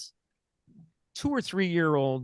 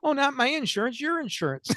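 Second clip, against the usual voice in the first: cheerful high salesman; 9 semitones higher than usual. Retold or imitated. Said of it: "He says".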